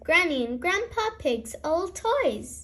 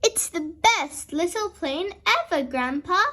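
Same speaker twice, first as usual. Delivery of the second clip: cheering. Acted. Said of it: "cheers Peppa".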